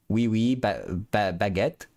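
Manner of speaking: hesitant, half-hearted fake French; fake French accent. Shown as a demonstration. Streamer testing whether they can fake French, unsure French accent. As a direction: stumble into a token French accent, questioning. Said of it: "Can I do a f-, a fake fr-, French accent?".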